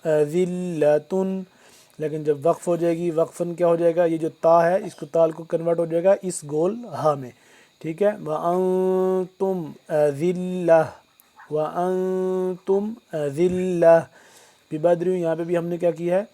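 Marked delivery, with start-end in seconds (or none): 0.1-1.4 slow, drawn-out tajweed chant; Quran recitation. Shown as a demonstration. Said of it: "teacher recites verse slowly". 8.2-14.0 measured tajweed recitation of وانتم اذلة; Quran recitation. Shown as a demonstration. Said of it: "teacher repeats verse as model".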